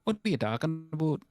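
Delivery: Irish-tinged mock Newfoundland accent. Doing Newfoundland talk for friends, mock accent. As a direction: imitate a lilting Newfoundlander.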